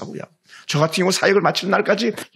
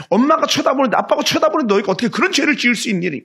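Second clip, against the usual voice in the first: raised, louder pretend rebuke; mock parental scolding; 7 semitones higher, 4 dB louder than usual. Preacher voices a parent scolding children, louder and higher. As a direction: scold the kids as a parent would.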